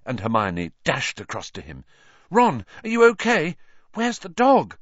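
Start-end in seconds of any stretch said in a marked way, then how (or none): 2.3-4.8 high, loud, anxious questions; worried shout, pitched up; urgent alarm. A narrator's reading. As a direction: call out urgently to an injured friend. Friends rush to injured Ron.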